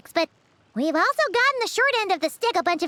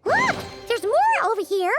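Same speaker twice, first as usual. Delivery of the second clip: excited call. Acted. To the traveler, eagerly calling them over to look.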